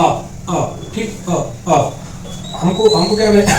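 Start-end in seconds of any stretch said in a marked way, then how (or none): 0.0-1.9 "आ, आ" breathed out unvoiced as a drawn vowel demo; whispered vowel demo. Shown as a demonstration. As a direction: whisper the long "आ" for the class to copy. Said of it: "आप उच्चारित करके देखें". ("आ" को फुसफुसाकर लंबा खींचकर बोलना)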